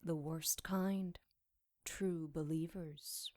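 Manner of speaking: slow, dark whisper; grim whisper. Acted. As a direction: whisper it like a secret. Grim hushed answer.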